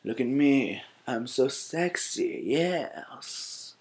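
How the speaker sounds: mocking show-off. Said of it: "stop looking stupid with your".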